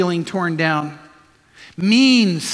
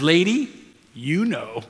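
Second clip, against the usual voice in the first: parrot; 2 semitones lower, 3 dB quieter, slower than usual. Acted. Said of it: "The parrot looks at her and says".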